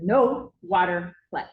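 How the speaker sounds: slow, firm no water play rule; secretary calmly setting the rule; firm secretary warning. Retold or imitated. Secretary telling Braden at the sink, firm and slow. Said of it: "and said".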